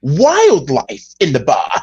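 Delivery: high, drawn-out fake disgust; mock disgust. Imitating the bar host's outrage, hammed-up. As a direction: act appalled at the raccoon. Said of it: "he was like".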